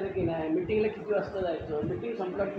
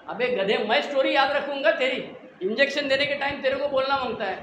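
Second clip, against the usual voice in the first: louder, exasperated retold telling-off; doctor scolding; 3 semitones higher, 4 dB louder than usual. Dentist scolds the patient for not mentioning drinking, retold loud telling-off. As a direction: scold him like an annoyed doctor.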